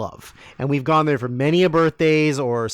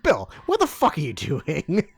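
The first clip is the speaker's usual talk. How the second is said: 1 laughing exasperation. Retold or imitated. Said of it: "We're just like".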